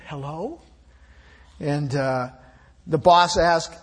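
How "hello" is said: put-on hushed little child's voice; child's whisper. A narrator's reading. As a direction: breathe it softly like a small child. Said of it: "greeted by a child's whisper".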